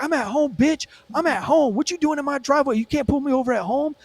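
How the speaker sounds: high-pitched, protesting mock rant; imitated indignant driver. Driver telling cop he's at home, mimicked indignant protest.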